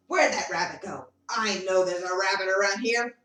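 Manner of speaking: a fox hunting for its dinner; sly fox. Acted. Fox searches the mushroom for the rabbit, low sly voice. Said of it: "comes running up to the mushroom and says".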